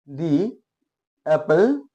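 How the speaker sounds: "दी एप्पल" said slowly, "दी" as a long dee, then एप्पल; teacher models "दी एप्पल" with a clear dee; demo pronunciation. Shown as a demonstration. Teacher showing class how to say it, "दी एप्पल" with dee. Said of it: "ऐसे".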